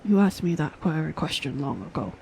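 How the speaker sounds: put-on weary old mentor recalling war; old man voice. Old master Omp speaking again.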